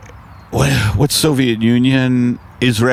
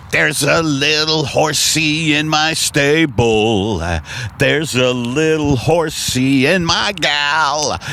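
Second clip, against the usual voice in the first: a light crooning lounge singer. Acted. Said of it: "a diner's gonna sound like this".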